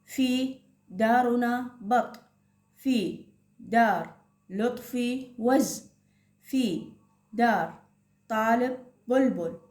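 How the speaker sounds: slow, careful reading to first graders; teacher modelling slow reading to a class; slow reading aloud. Shown as a demonstration. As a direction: read the passage word by word for children to follow. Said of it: "طارق يقول".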